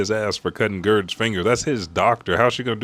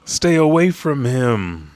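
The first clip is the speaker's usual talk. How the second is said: urgent warning; 4 semitones higher, 5 dB louder, slower than usual. Retold or imitated. Acted warning, they say.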